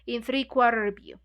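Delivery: reading a novel aloud to the group; measured, even reading voice; story narration. A narrator's reading. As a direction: read the passage steadily, like a book club reader.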